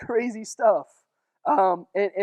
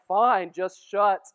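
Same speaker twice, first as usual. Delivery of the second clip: slow, fed-up surrender; worn-out giving in; 5 dB louder, much slower than usual. Retold or imitated. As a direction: drag it out like you've given up. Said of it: "he's like".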